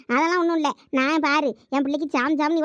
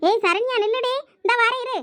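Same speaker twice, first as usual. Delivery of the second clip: higher, raised call after her daughter; 6 semitones higher than usual. Acted. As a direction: call out to stop her from leaving. Mother calls after her daughter. (உயர்ந்த குரலில் கூப்பிடுதல்)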